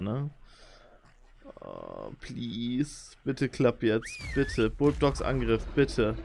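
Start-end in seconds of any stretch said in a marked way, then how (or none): none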